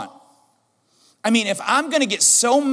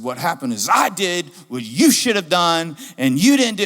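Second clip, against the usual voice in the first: mock-mad dad, punching the key words; retold angry scolding; 3 semitones lower than usual. Dad explaining the pile to his kids, retold angry scolding. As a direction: act out a fed-up parent's telling-off. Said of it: "I was so mad".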